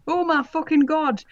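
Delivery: high, hammed-up dismayed cry; loud cry. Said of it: "I cried".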